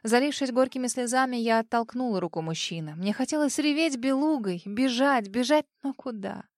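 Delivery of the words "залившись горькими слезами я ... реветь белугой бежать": ordinary delivery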